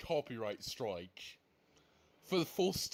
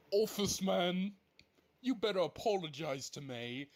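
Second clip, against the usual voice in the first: angry call-out; 4 semitones higher than usual. Real, not acted. Calling out the man who filed the strike, angry call-out. Calls out the culprit angrily.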